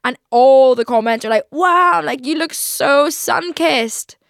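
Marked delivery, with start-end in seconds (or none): 1.5-4.2 loud, higher imitation of amazed fans; gushing commenter. TikTok commenters to her about her tan, gushing. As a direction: gush it, drawing out the end slowly.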